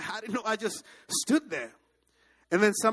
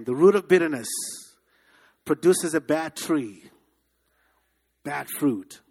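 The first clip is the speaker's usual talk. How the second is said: a preacher's louder call to repeat; 7 dB louder than usual. Shown as a demonstration. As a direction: drive it home louder. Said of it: "Say that again".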